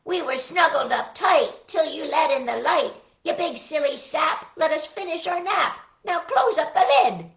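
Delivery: grumpy little fish woken from a nap; annoyed sardines scolding; cross sleepy sardines. Acted. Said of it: "they started to squeak".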